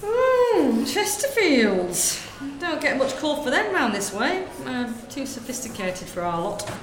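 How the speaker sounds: lightly voiced gossiping northern woman, chatty; northern shop lady. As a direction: natter away like a corner-shop lady. Sketch, shopkeeper gossip.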